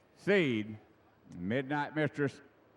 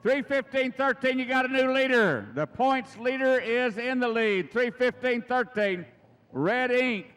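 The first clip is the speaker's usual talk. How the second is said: excited; 6 semitones higher, 3 dB louder than usual. Real, not acted. Announcing a new leader.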